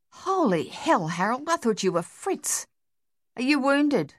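high, startled Australian soldier; a jolt of alarm, half-whispered hell then up. Acted. Dave startled in dark pillbox.

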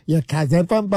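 imitation Boston accent, poking fun. Retelling what he said in the restroom, mock Boston accent. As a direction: tease with a put-on Boston accent. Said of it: "making fun of, like, the, the Boston accent".

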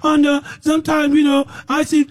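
high, mocking voice of self-satisfied preachers. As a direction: lampoon the preachers' boasting, pitched high. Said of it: "You just think".

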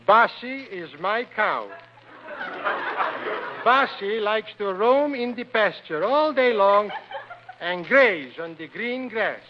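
slow, halting schoolbook reading; primer read-aloud. Acted. Man reading his second reader aloud, slow and deliberate. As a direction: read it out like a proud beginning reader.

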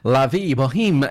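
slow, careful French pronunciation; attempted French accent. Real, not acted. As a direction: say the title with an amateur French accent. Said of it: "Apologies for my accent".

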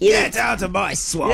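slow, shouted mock Scottish ogre; Shrek impression. Mimicking Shrek to the co-hosts, slow hammed-up shout. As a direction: bellow it like an ogre guarding his home. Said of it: "Just do Shrek".

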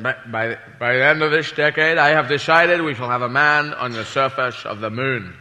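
Kennedy quote. Retold or imitated. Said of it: "President Kennedy said".

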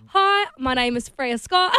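put-on slow, laughing try at an Australian accent; Australian accent attempt. Singer tries an Aussie accent for the host, laughing. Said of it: "how well do you do an Aussie accent?".

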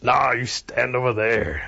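slow, drawn-out bear refusal; gruff bear. Acted. Bear brushing off thirsty Rabbit on the path, gruff bear voice. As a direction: put on a bossy bear's voice.

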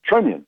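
Trenyon with a subtle Y after the N; Trenyon, a slight y-glide in the second syllable; subtle Y sound. Retold or imitated. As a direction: say Trenyon somewhere near "onion" at the end. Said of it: "just this subtle Y in there".

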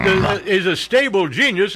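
a light take on Trump's voice, not far from his own; hint of Trump saying stable genius; mild Trump impression; imitating Trump. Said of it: "I'm just imitating the stable genius".

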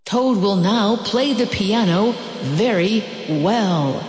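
a distant voice presenting Toad on stage; strange announcer voice. Acted. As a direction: announce it like a grand master of ceremonies. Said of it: "said the strange voice".

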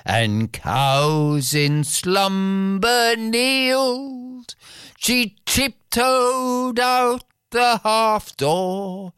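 slow, measured poem reading; ballad recitation. A narrator's reading. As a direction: recite it like an old ballad, very slowly.

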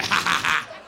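hearty staccato ha-ha-ha; gloating prankster's laugh; mock laugh. God laughing after punking everyone, gloating. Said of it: "if God was like".

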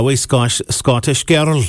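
bad put-on Scottish accent; a clumsy stab at a Scottish accent; terrible Scottish accent. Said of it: "that was a terrible Scottish accent".

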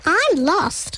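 little creature. A narrator's reading. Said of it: "said the little creature".

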